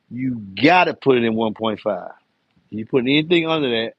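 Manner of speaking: each word laid out deliberately for a viewer who missed it; said again slowly. Shown as a demonstration. Repeating the box size for a confused viewer, deliberately slow. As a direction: spell it out patiently, word by word. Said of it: "Let me say that again slowly so you can understand".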